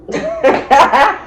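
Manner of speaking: high, fake blubbering; put-on high whimpers; mock sobbing. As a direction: blubber wordlessly, hammed-up. Acting herself crying in his chest.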